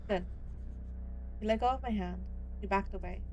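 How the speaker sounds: steady storytelling read; story narration. A narrator's reading. Streamer reading the hunter scene to viewers, steady storytelling read. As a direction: read the scene out like a dark novel. Reads the game's story and dialogue aloud.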